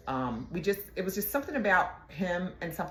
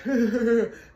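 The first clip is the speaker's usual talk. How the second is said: laugh; 6 semitones higher, 6 dB louder than usual. Retold or imitated. Laugh after the retold taunt.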